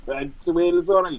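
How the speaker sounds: sing-song mock Welsh voice; mock Welsh accent. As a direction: echo it in a joke Welsh accent. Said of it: "you started doing accents".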